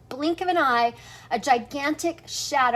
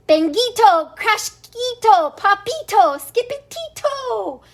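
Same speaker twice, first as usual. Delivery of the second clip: louder, rising calls down the hall; calling out names; 7 semitones higher, 5 dB louder than usual. Acted. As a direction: call each kitten by name. Mother calling the kittens.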